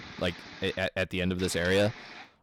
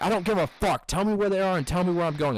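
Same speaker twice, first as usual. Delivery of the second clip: high, loud imitation of an angry old man; imitating angry driver; 9 semitones higher, 4 dB louder, faster than usual. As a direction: mimic a furious customer ranting.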